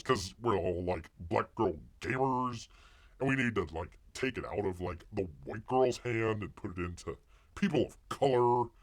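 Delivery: a lightly voiced valley girl parody, lots of "like"; mock valley girl. Streamer mocking the speaker from the clip, a light valley girl voice. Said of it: "she talks like a valley girl".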